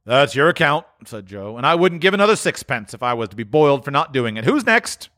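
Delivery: put-on high, wheezy old dealer voice; a crafty old fence welcoming them; sly old pawnbroker; old Joe.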